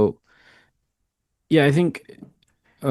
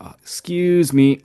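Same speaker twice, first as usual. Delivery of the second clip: cute; 8 semitones higher than usual. Shown as a demonstration. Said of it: "a cuter one".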